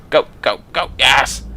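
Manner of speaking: loud excited go go go; triumphant loud cheer. Real, not acted. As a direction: urge the car on. Racing, cheering.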